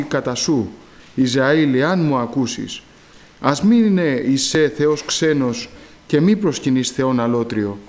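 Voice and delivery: measured, solemn reading of the psalm; scripture reading. Acted. Preacher reads the psalm aloud to the church, solemn reading. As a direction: read the verses slowly to the congregation.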